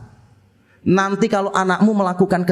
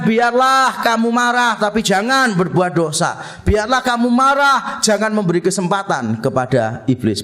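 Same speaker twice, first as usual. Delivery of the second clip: scripture quote; 2 semitones higher than usual. Acted. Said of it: "Alkitab mengatakan".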